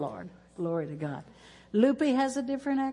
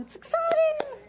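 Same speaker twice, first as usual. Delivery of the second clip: pitched way up, squealing with delight; excited squeal; 3 dB louder than usual. Real, not acted. Pastor thrilled about online translation.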